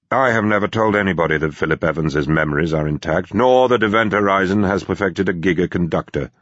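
measured, formal statement. Acted. Security chief denying any leak, formal. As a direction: state it officially, on the record. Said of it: "the security chief said formally".

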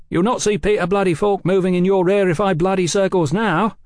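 loud, high, contemptuous interruption; sneering, forceful interjection; scornful interjection. A narrator's reading. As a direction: cut in with coarse scorn. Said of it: "Velasco interjected".

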